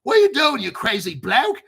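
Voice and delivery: hammed-up Aussie complaint, shouting then settling; Australian yelling. Australian exchange worker yelling at the host, mock Australian rant. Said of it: "I don't want him yelling at me".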